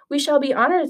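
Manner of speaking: high, stammering, caught-out agreement; sputter, then force politeness; flustered stepmother. Acted.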